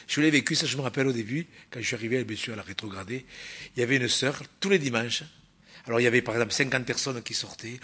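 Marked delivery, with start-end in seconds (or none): none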